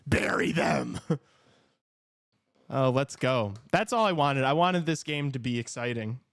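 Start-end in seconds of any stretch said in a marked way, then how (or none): 0.1-1.0 half-laughed urging; laughing repeat. Real, not acted. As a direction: say it again on the tail of a laugh.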